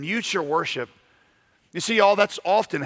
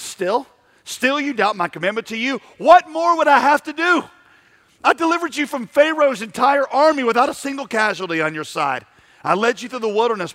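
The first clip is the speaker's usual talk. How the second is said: God rebuking; 8 semitones higher, 5 dB louder than usual. Acted. Preacher voices God rebuking people.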